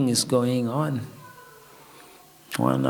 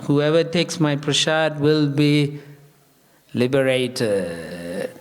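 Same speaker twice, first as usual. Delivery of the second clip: solemn proclamation. Retold or imitated. The Lord grants Parvati's desire, solemn proclamation.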